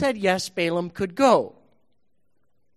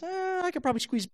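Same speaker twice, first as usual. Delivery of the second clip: donkey voice; 2 semitones higher, faster than usual. Acted. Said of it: "the donkey looks in and goes".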